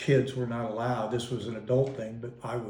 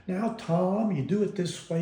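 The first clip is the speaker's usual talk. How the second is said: higher, sweet patient teaching voice; nice and sweet; 6 semitones higher than usual. Retold or imitated. Mom sweetly showing her son how to make gravy. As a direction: coax the boy gently along. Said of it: "she'd be nice and sweet".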